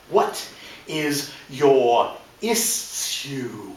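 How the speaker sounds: slow, looming mock-menace; lightly voiced big stern agent; menacing agent. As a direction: drag it out like a looming guard. Giant agent glowers down.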